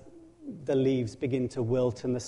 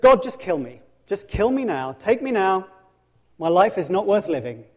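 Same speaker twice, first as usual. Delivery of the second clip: irrational death wish; 4 semitones higher, 4 dB louder than usual. Acted. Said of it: "Then he's here and it's just".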